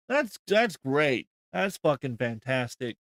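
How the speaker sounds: dry sarcasm, dragged out at first; deadpan mock approval; sarcastic. Real, not acted. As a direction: praise it without meaning it. Mock approval of a murder threat.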